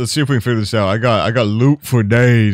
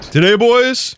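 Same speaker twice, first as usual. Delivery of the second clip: high, loud hype intro call; hyped intro; 12 semitones higher, 6 dB louder, slower than usual. Real, not acted. Streamer hyping his viewers, high and loud. Opening his video to the boys.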